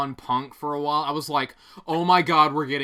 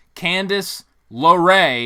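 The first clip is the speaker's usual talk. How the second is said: slow, raised, drawn-out, deliberate careful pronunciation; 6 dB louder than usual. Retelling how the commentator said a name: Michael Cole saying it slowly. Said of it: "he said it slowly".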